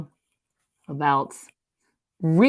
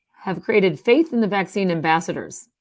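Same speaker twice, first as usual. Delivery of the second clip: laughing whisper; 4 dB louder than usual. Real, not acted.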